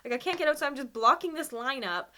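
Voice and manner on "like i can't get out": freaking out. Retold or imitated. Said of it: "just freaking out".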